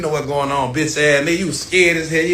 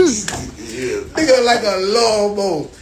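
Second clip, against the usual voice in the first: slow, laughing and higher; 4 semitones higher, much slower than usual. Real, not acted. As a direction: drag it out while laughing. Laughing at his own joke.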